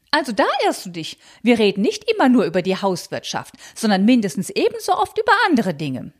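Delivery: high, fussy, scandalized aunt voice; high fretful aunt clutching pearls; prim old aunt. Acted. Tante Malchen voiced in reading.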